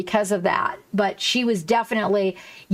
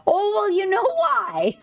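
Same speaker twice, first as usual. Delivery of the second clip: uncle's reply; 9 semitones higher than usual. Retold or imitated. Streamer retelling her uncle's teasing answer, in a put-on uncle voice. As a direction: play the uncle, offhand and knowing. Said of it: "He tells me".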